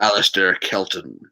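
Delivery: slow, put-on American accent. Reading a viewer's name to the stream, American accent. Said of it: "I'm saying it in an American accent".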